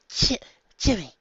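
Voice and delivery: high, slow, delighted mother's cry; mother gleefully greeting her grown son; jovial exclaim. A narrator's reading. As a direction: greet him like a thrilled mom. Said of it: "Missus Kirk exclaimed jovially".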